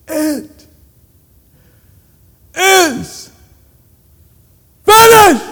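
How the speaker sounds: slow high cry building to a loud shout; yelling out. Acted. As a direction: cry it out with the last of his strength. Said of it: "he yells out".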